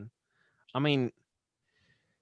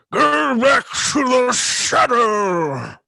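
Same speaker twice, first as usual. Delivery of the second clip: put-on booming old wizard shout, slow; 9 semitones higher, 9 dB louder, much slower than usual. Podcast host doing his Gandalf line, slow booming wizard shout. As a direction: thunder it like Gandalf. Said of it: "old wizard".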